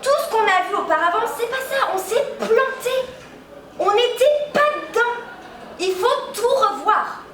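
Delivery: grandiose, laughing. Acted. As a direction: announce the revolution, barely holding a laugh. Self-proclaimed revolutionary of physics. (fanfaronnade de révolutionnaire, en riant)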